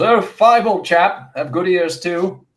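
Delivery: high, loud, gobbling hare talking over the food; a greedy hare crowing for bigger bowls. Acted. GM voicing the hungry hare Jillian at the feast, high and loud.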